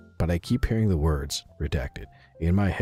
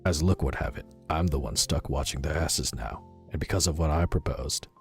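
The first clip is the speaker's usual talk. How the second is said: put-on tentative, understated British accent; attempted British accent. Operative grumbling in his log about guard duty, amateur British accent. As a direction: read the log with a shaky grasp of British vowels. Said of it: "I'm gonna try a British accent".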